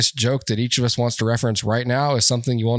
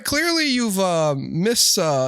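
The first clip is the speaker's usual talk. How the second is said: higher, polite-but-stern Canadian voice; 5 semitones higher than usual. Pretend. Canada warning enemies, high mock-stern accent. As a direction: scold nicely, eh. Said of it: "They're like".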